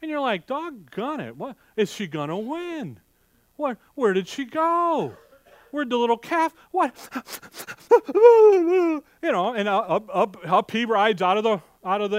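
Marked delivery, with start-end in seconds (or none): 0.4-6.9 anxious viewer. Retold or imitated. Acting out watching the cowboy show. 7.0-9.0 loud, high burst of laughter; big high laugh. Real, not acted. Preacher laughing at his own tearful TV story, loud high laugh.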